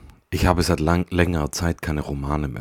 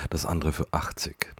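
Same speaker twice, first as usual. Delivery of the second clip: whispered aside; 7 dB quieter than usual. Real, not acted. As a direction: drop into a whisper for the price. Whispering an absurd used-book price.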